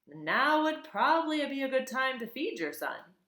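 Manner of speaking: put-on old goose giving motherly advice; bossy old goose. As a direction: nudge the robot like a know-it-all goose. Goose voice, higher.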